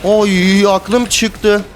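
startled. Real, not acted. Player startled in a teamfight.

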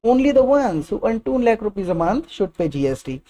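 very slow, chunk by chunk; slow teacher demo; slow broken-up sentence. Shown as a demonstration. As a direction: break the sentence into pieces, word by word. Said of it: "तोड़ तोड़ के बोलिए".

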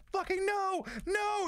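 high, loud cat protest; voicing the cat. Owner voices the grumpy cat, high and loud. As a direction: squeal like an annoyed cat saying no. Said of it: "she's like".

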